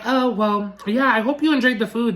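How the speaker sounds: lightly mocking imitation of the server; mildly condescending mock courtesy; sarcastic mimicry. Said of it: "so upset with his sarcasm".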